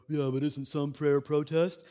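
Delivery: challenging tone. Retold or imitated. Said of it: "that's how he obviously talks, since he's challenging me".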